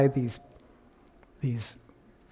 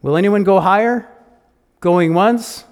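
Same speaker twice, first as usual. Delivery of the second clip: loud, raised auction call; auctioneer calling; 4 semitones higher, 6 dB louder than usual. Acted. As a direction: call it out over the room.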